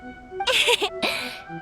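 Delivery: small awkward chuckle; little self-conscious laugh; sheepish laugh. Acted. Sheepish before admitting no answer.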